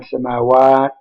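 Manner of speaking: "samawat" stressed on a long final WAT; final-syllable stress. Shown as a demonstration. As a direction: lean on the last syllable of "samawat". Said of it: "stressed on the last syllable".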